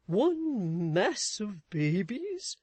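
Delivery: slow, puzzled repetition; alarmed echo. A narrator's reading. Husband repeating his wife's words, alarmed. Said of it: "repeated Mister Chick, staring with an alarmed expression".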